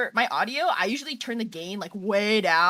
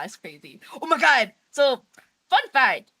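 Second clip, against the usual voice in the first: ordinary talk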